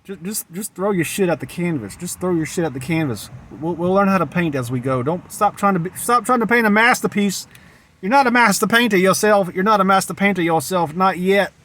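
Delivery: the master painter inside pushing you on; a voice inside insisting you keep going; inner master painter voice. Retold or imitated. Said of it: "he's saying".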